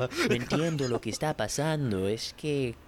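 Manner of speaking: put-on slow drawn Che boludo in Argentine accent; mock Rioplatense sh sounds; mock Argentinian. Mocking how Argentinians talk, mock Argentinian accent. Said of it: "the Argentinian one is like".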